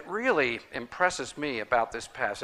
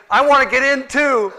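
high, loud, laughing mock shout; 13 semitones higher, 14 dB louder than usual. Man in the crowd asking to be saved, laughing shout. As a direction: blurt it out through laughter. Man's reply in retold story.

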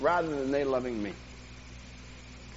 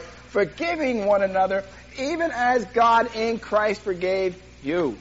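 scripture reading; 3 semitones higher than usual. Real, not acted. Reads scripture aloud.

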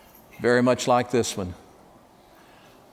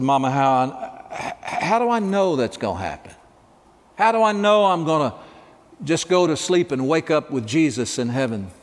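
put-on higher pleading child's questions; anxious child asking; 3 semitones higher than usual. Sick boy asks mother how he'll know, anxious and higher. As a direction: ask like a frightened little boy.

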